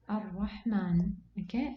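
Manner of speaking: Ar-Rahman slowly, with the small alif sounded as a full long aa; long-vowel demonstration. Shown as a demonstration. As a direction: draw out the last aa in Ar-Rahman like a teacher. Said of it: "pronounce it as if".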